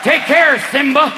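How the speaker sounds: a hint of a sneering old villain; old man Potter. Cheney to Obama at the inauguration, lightly sneering. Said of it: "looking like old man Potter".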